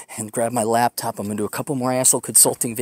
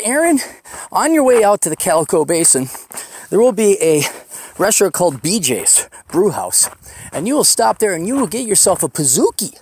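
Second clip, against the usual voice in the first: mock divine command, much higher; God's voice; 5 semitones higher than usual. God telling Aaron to stop for a Pizookie, mock divine decree. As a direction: grandly order a dessert like a prophecy. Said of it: "The Lord said".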